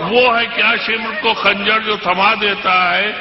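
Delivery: measured, declamatory poetry recital; stately nazm recitation. Acted. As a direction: recite each couplet with weight. Recites couplet.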